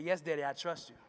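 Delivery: low and quiet; soft daughter. Acted. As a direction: answer softly with trust. Daughter answers softly.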